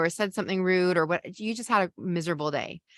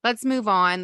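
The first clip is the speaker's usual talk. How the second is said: higher, hurried chirpy reassurance; rushing to fix; 5 semitones higher than usual. Shown as a demonstration. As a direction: rush them past the upset to fix it. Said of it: "And you say".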